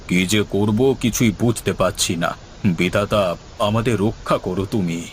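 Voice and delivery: despairing prayer. Acted. Headman despairs, prays.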